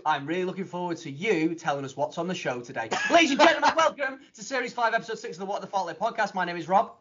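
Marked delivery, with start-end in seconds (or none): 3.1-6.3 announcer voice. Acted. Grand podcast announcement.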